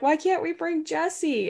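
put-on high child voice, own accent; little girl, no accent. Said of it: "I'll go back to my voice".

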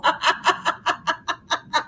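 airy burst of laughter; breathy laugh. Real, not acted. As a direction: laugh out, unvoiced and high. Host laughs at dance joke.

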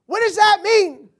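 very loud, high, slow outburst; exasperated shout. Acted. Preacher interrupting his pious reading, exasperated high shout. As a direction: burst out baffled, stretching the words. Breaks off mock reading, exclaims.

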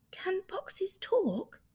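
slow, breathy whisper. Acted. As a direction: whisper it slowly, in awe. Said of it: "whispered Rabbit".

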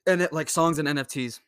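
talking through a burp. Real, not acted. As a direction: burp mid-sentence. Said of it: "Sorry, I'm burping so much".

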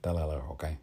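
lightly attempted Tony Montana Cuban accent; understated Cuban-accented phrasing. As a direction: try a mild Cuban accent. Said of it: "keep working on that accent".

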